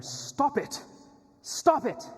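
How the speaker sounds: high, loud imitated protest; yelling out. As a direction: yell it out to halt the owner. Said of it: "yelling out to the owner".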